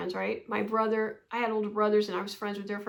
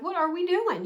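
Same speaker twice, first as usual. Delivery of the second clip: mad; 7 semitones higher, 4 dB louder than usual. Retold or imitated. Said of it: "I got mad".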